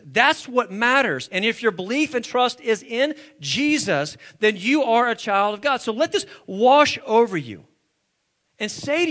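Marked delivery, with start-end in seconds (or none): 0.0-7.6 loud, emphatic sermon delivery; forceful preaching. Real, not acted. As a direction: drive the point home to the congregation.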